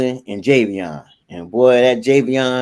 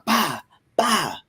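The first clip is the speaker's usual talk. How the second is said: imitated belt smack; 6 semitones higher than usual. Imitates hitting them with the belt.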